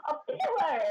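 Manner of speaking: high, slow exclamation; a mock-surprised cry; surprised shout. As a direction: call it out, startled. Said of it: "And Eshel's like".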